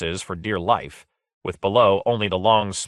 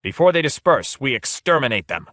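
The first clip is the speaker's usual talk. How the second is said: higher, louder, eager rush; high excitement; 5 semitones higher, 3 dB louder than usual. A narrator's reading. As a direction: gloat as the enemy comes into range. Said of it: "said Lord Fade in high excitement".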